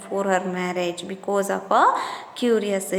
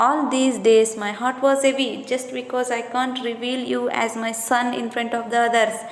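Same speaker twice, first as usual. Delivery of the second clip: begging mother. Retold or imitated. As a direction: urge him to join his brothers, pressing. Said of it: "like that she is begging".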